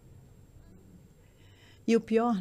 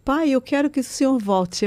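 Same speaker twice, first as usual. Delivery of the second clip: louder, higher, tearful begging to her father; desperate crying plea; 5 semitones higher, 6 dB louder than usual. Retold or imitated. Daughter pleading with her father before surgery, tearful and loud. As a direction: beg him to come back, voice breaking. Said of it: "comecei a chorar desesperadamente".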